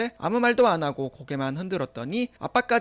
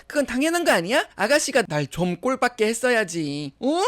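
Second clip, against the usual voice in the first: higher-pitched, mocking retort; brazen taunt; 5 semitones higher, 4 dB louder than usual. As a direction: throw it back as if it's obvious. Sister-in-law taunts back. (뻔뻔하게 비꼬는 말투)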